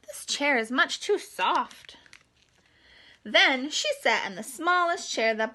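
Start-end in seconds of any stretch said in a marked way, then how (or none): 0.1-2.0 a hint of a girl's voice, mildly put out; light girl voice, a touch annoyed; lightly voiced little girl. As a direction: lightly play the girl finding it too big. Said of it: "and said".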